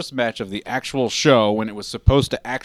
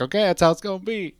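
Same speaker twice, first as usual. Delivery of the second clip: defiant acceptance; 9 semitones higher, faster than usual. Retold or imitated. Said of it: "and was like".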